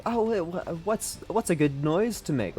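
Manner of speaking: high, unsure trainee villain; villain in training. Retold or imitated. Villain trainee wondering what noise to make, high mock trainee voice. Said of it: "in villain training".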